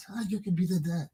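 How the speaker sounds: hushed, breathy whispered question; a whispered rebuke to gossiping relatives; retold whisper. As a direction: whisper it like you're scolding someone privately. Quoting himself to family.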